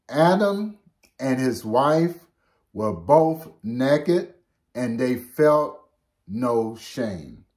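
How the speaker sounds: slow, measured Bible reading; solemn slow reading of scripture. Acted. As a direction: read the verse slowly and solemnly. Reads scripture verse aloud.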